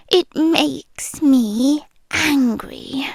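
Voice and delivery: very slow, restrained menace; restrained slow menace, barely held back. Acted. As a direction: let the anger seep out slowly. Voice admits its anger.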